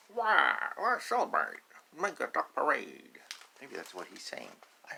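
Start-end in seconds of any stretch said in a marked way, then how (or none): 0.1-3.2 loud, bright party call; cheering ducklings. Acted. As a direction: call the others to a parade.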